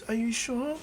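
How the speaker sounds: high, timid little Eri voice; young Eri. Acted. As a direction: ask in a small high voice, rising. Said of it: "she goes".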